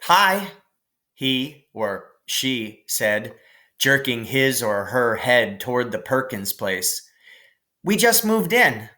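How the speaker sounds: teasing stranger. Acted. New kid on the fence teasing a boy afraid of the cow. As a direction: tease him from the fence.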